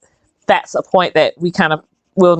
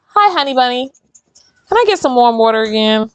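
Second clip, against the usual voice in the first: sweet greeting; 4 semitones higher than usual. Real, not acted. Greeting helper who brings water.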